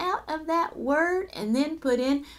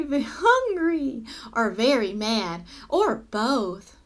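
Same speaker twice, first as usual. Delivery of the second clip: lively, suspenseful storytelling; story read-aloud; 3 semitones higher than usual. Acted. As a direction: read it to children with punched key words. Reads story to children.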